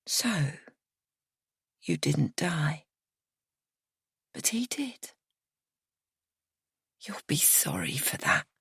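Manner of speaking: slow, soft, threatening drawl; slow menacing drawl. A narrator's reading. Miriana to narrator, a slow bitter drawl. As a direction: let each word hang, cold and bitter. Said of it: "in a slow drawl".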